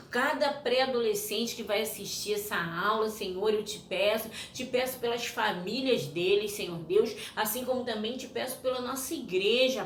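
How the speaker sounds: steady prayer voice. Acted. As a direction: pray sincerely for the class. Leads a children's prayer. (oração conduzida com calma)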